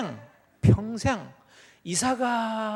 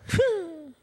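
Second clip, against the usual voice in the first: scoff; 11 semitones higher, 4 dB louder, much slower than usual. Acted. Abraham scoffs.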